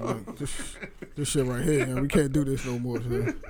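lightly voiced dad lecture; a hint of a stern father scolding; stern slow dad voice. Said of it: "I got into my dad lecture voice".

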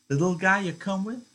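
lightly voiced wife teasing Lenny; Curly's wife probing. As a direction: needle him with a sly question.

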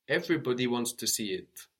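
quick run-through of "Everybody wants to see it". Shown as a demonstration.

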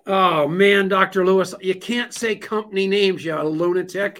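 mock exasperated scolding. Host teasing guest off air in a loud mock scold. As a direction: scold him half-laughing, not really mad.

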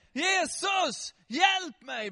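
high, loud shouted plea; desperate call for help. Acted. Blind beggar calling to Jesus for help, loud desperate shout. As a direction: cry out to be heard over a crowd. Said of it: "han började ropa en grej".

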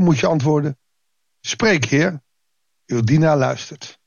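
measured, formal Bible reading voice; lightly formal reading from the pulpit; scripture reading. Acted. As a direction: read the passage to the congregation with calm weight. Reads Bible passage aloud.

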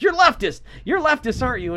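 high-pitched mock accusation; mock flipping out. Guest attacking his interviewer, mock flipping out. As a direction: imitate an indignant outburst. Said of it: "He just flips out and attacks the guy".

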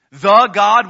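"The God" belted with "The" thrown high and loud; loud high-pitched "The" before "God"; stress on The. Shown as a demonstration. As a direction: slam the word "The". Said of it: "now we're saying a little more".

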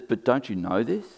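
understated sarcasm, rising at the end; sarcastic. Retold or imitated. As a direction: challenge them with mild mock disbelief. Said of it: "can you hear the sarcasm in that".

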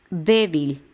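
Débil with a firm first syllable DÉ; stress on E. Shown as a demonstration. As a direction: hit the DÉ in Débil. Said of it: "el acento va en la E".

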